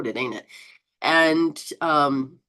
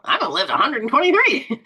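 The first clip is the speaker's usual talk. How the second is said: bright, higher, louder declaration of a long life; excited vow; 7 semitones higher, 5 dB louder, faster than usual. Retold or imitated. Host telling viewers how to set their intention, excited. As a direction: proclaim it like a bold promise to yourself. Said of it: "set the G P S to, you know".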